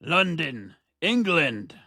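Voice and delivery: announcer-style answer. Pretend. Grand answer to co-host's question.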